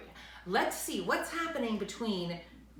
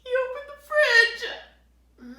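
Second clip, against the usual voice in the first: much higher, louder and slow; slow high suspense; 11 dB louder than usual. A narrator's reading. Reading to kids, dramatic slow buildup. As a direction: drag out the suspense on fridge.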